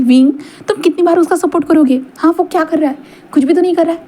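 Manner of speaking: a father berating his lazy son, pitched well up; angry father scolding. Acted. Father rebuking his son before Wing, angry and high.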